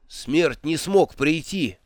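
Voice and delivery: drawn-out, resigned explanation; a hopeless shrug in the voice; resigned, slow. Acted. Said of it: "обречённо объяснил демон". (обречённо и медленно)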